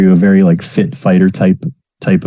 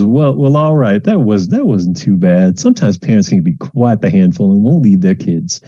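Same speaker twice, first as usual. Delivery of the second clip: brisk TA. Acted. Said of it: "Lynn says".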